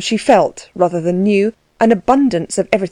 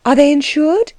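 hushed, worried whispered question; 7 semitones higher than usual. Acted. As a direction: whisper it so no one hears. Asked in a hushed worry.

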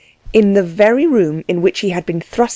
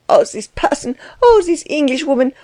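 much higher, wailing outrage; lamenting cry; 6 semitones higher than usual. A narrator's reading. Frau Delvig lamenting Klutz's treatment, higher wailing cry. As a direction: wail it out in scandalized pity. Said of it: "cried Frau Delvig".

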